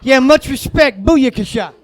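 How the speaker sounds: hick bro praise. Retold or imitated. Alabama hyping Arizona, shouting mock bro praise. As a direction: overdo the bro compliment. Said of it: "Arizona call continues".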